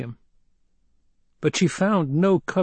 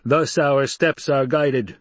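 flat-voiced dignity; 4 semitones higher, 4 dB louder, slower than usual. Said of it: "Still with that flat-voiced dignity".

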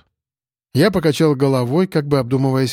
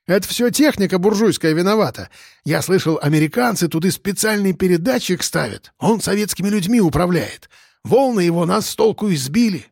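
a lightly voiced boozer, higher, earnestly blaming radio waves; conspiratorial old drunk; 5 semitones higher than usual. Ilyich blames bourgeois waves to the cop, earnest. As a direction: sell the crazy theory.

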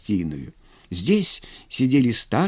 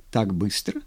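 smiling; 5 semitones lower, 5 dB quieter than usual. A narrator's reading. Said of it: "улыбнулась она".

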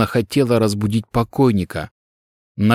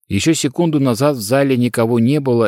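ordinary delivery

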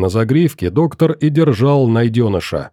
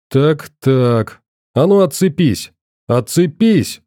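stern scolding; 2 semitones higher than usual. Acted. Doctor fights biting creature.

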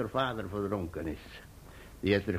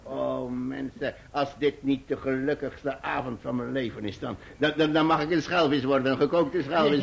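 overjoyed; 3 semitones higher than usual. Acted. Overjoyed old sailor's toast.

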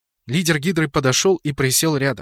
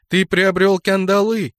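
high, loud, slow scorn; derisive; 7 semitones higher, 5 dB louder than usual. A narrator's reading. Divana mocks her teacher's new power, high and derisive. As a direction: throw it back as a ringing taunt. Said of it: "и Дивана расхохоталась".

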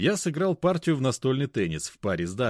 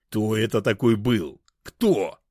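louder, almost yelled; near shout; 5 dB louder, slower than usual. A narrator's reading. Mishka demanding who it was, near shout. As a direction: nearly shout the question. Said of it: "почти выкрикнул Мишка".

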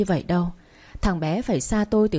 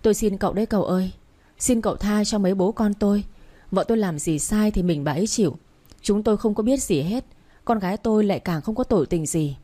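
fast, frantic begging for mercy; a lightly voiced frightened father pleading; begging man. Father begging the young master to spare his family, frantic. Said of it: "chắp tay vào van xin".

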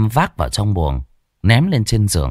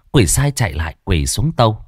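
usual speaking voice

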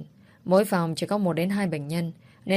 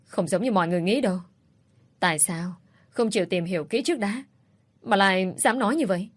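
mild shout. Acted. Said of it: "Cô hét lên".

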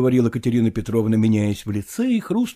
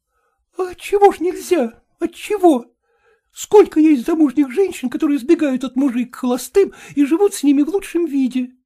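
lightly voiced woman pressing her case, a touch higher; a hint of a woman arguing eagerly; insistent young woman; 13 semitones higher, 4 dB louder than usual. Катерина insists. (настойчивая молодая женщина, слегка)

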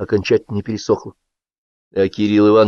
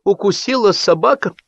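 high, strained tattling; crushed, squeezed-out excuse; 11 semitones higher than usual. A narrator's reading. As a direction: force out the rumour in a defeated voice. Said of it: "выдавил из себя прибитый Кытин".

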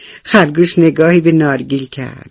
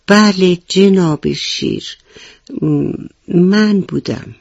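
slow, halting, scared admission; timid rabbit; 3 semitones higher, slower than usual. Acted. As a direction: confess hesitantly, stammering. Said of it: "با ترس و لرز گفت". (با ترس و لکنت)

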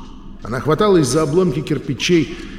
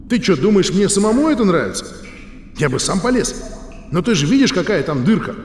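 lightly raised, impatient; 4 semitones higher than usual. Acted. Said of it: "Матвей повысил голос, словно разговаривал с капризным ребёнком".

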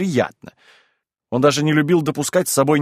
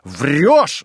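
loud, blunt accusation; shouting; 3 dB louder, much slower than usual. Acted. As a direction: shout him down. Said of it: "закричал опять Ноздрёв".

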